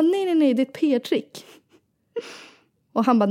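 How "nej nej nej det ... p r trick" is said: insistent high denial. Retold or imitated. Mother insisting it's PR.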